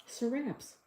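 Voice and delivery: "Seraps" softly, with a short A; "Seraps" in two soft syllables, stressed on raps; corrected pronunciation. Shown as a demonstration. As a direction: try out "Seraps" quietly, ending like raps. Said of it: "is the pronunciation".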